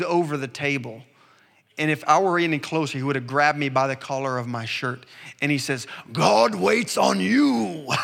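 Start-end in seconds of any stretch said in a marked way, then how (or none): 6.1-7.9 put-on very slow, stern German-accented rebuke; German evangelist, stern. Evangelist rebuking the young minister across the table, slow stern German accent. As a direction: lean in and say it slowly and gravely in a German accent. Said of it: "in his German strong accent".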